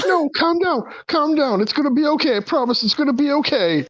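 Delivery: high, soothing mad scientist; Julie soothing. Acted. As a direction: coo at the tentacles to calm them, high-pitched. Julie soothing her tentacles.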